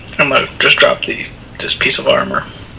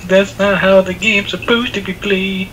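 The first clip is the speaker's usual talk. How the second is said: mocking whiny, higher and slow; bitchy whine; 6 semitones higher, slower than usual. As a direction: imitate a whiny complainer, slow. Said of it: "Jeremy's gonna be bitchy".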